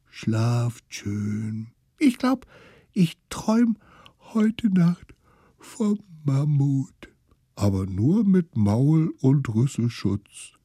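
put-on high, slow drowsy little child; high dreamy kid voice; sleepy kid's voice. Smallest one, sleepy.

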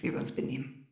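halb geflüstert, leiser; bitter vor sich hin flüstern. Acted. Ehestreit, leise gesprochen. (leise, bitter geflüstert)

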